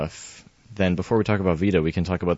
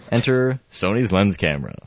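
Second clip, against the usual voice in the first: ad read. Pretend. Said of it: "Okay, commercial over".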